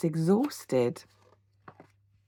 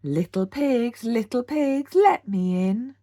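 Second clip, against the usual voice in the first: roaring wolf; 5 semitones higher, 5 dB louder, slower than usual. A narrator's reading. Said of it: "roared the wolf".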